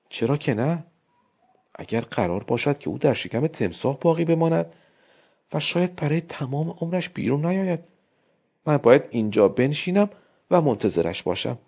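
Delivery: lightly voiced wife, recited justification; rehearsed excuse. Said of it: "مثل آدمی که قبلاً درسی را تمرین کرده باشد".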